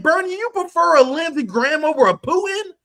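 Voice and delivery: incredulous tirade aimed at Bernie; scornful rebuke to Bernie. Retold or imitated. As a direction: scold Bernie, building to a shout at the end. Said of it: "and I'm like".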